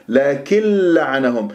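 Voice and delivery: لكن لعنهم with nun merged into a doubled lam. Shown as a demonstration. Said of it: "صارت اللام مشددة".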